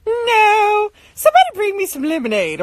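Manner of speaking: mock-imperious request; imitating sassy parent. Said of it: "they become real sassy".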